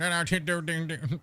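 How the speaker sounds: mock mumbled gibberish noises; Water Boy gibberish. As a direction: garble it like an unintelligible talker. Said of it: "almost like the guy from The Water Boy".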